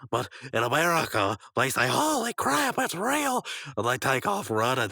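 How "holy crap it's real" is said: high-pitched shocked cry; cartoonish high yelp of disbelief; alarmed exclamation. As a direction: blurt it out in mock terror. Repeats the alarmed American line.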